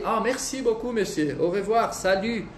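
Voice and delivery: polite merci beaucoup, monsieur, au revoir; teacher modelling a farewell; French goodbyes demo. Shown as a demonstration. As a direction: thank and leave politely. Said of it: "Tanto na hora de chegar quanto de sair".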